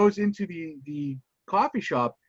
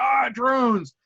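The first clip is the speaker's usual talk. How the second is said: excited; 7 semitones higher, 3 dB louder than usual. Retold or imitated. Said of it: "He's like".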